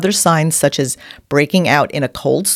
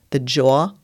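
New York accent. Real, not acted. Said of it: "Excuse my New York accent".

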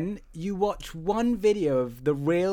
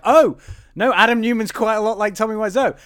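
higher, louder burst of sudden realisation; mock realisation; 5 semitones higher, 5 dB louder than usual. Co-host retelling watching videos of Adam, dawning surprise. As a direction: replay the moment it dawns on you.

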